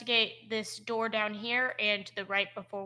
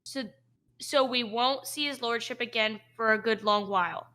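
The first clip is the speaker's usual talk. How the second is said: lightly voiced orc guard; 3 dB louder than usual. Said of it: "An orcish voice says".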